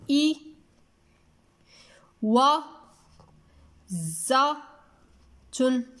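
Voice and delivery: إي و ز تن in separate syllables, clear pauses between; slow teacher's breakdown of إي و ز تن, each syllable isolated. Shown as a demonstration. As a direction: sound out إي و ز تن one syllable at a time. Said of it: "لاحظوا معي".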